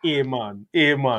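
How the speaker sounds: rough attempt at a Jamaican accent. Shown as a demonstration. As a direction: try out a mock Jamaican accent. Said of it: "I'm not the best at accents".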